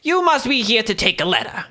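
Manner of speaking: high strained busy clerk; stuck high pitch. Acted. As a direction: end up high and tense. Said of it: "high, strained voice".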